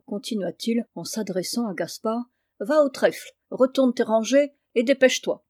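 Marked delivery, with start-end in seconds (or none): 2.6-5.4 stern command. Acted. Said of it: "Le ton du père ne permettait pas de résistance".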